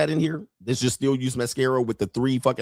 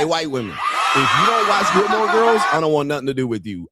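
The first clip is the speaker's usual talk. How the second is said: loud, high laughing holler; calling out; 3 semitones higher, 4 dB louder than usual. Acted. Host hollering at white women in the audience, laughing call.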